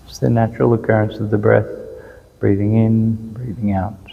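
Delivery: calm, unhurried meditation guidance with long pauses; even, settled voice, leaving space between instructions; guided meditation. Real, not acted. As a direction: gently lead listeners into following the breath. Leads a guided breathing meditation.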